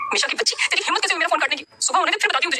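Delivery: put-on high, young girlish voice, scolding; a young woman snapping at her friend. Ishki scolding Misha over a cut phone call, high and girlish.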